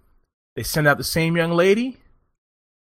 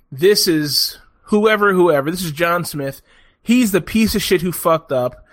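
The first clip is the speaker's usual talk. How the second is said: louder, slow pompous boss intro; boss introducing him; 3 semitones higher, 3 dB louder than usual. Retold or imitated. Boss introducing the fall guy to the panel, mock pompous. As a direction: present him to the panel with disdain.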